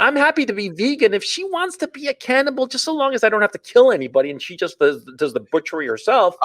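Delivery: high, airy mock-reasonable voice. Mock-reasonable cannibal justification.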